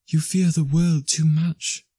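put-on slow, gentle young woman's voice; gently. A narrator's reading. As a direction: say it gently to the man she loves. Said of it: "she answered gently".

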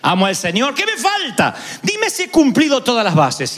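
eager and pleased with himself, asking to be praised; rich young man. Retold or imitated. The preacher voicing the rich young man asking Jesus, lightly mock eager.

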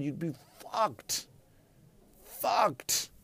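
slow breathy whisper; whispered punchline. Acted. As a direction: drop to a whisper.

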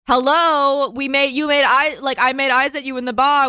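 breezy flirt with a lift in pitch; flirty hookup voice. Pretend. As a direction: play the eager flirt at the bar. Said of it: "I'm like".

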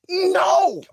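high, drawn-out dismayed no; dismayed cry. Retold or imitated. Caller losing his last option, dismayed cry. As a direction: wail it in comic despair.

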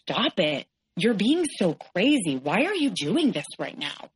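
mild mock yell, words drawn out; stretched-out, scolding retold yell. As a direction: imitate an exasperated ex yelling without full volume. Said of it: "he's yelling".

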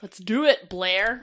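forceful, low rallying call; aggressive. Real, not acted. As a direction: say it like an aggressive order. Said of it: "That sounded really aggressive".

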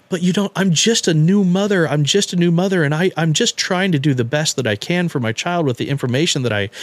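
high, whiny imitation of fake tears; the mother's put-on weepy plea to the doctor, mocked high and whiny; mock crying. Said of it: "She starts crying, starts doing this whole".

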